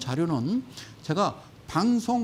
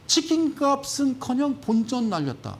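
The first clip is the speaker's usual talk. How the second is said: mocking headline; 6 semitones higher than usual. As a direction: drag it out to ridicule the article. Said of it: "첫날 뭐라고 했냐면". (기사 제목을 느리게 비꼬듯 읽기)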